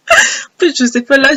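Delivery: la voix déraille vers l'aigu; la voix se brise sans le vouloir; voix qui casse. Real, not acted. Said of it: "j'ai une voix cassée". (voix cassée qui part dans l'aigu)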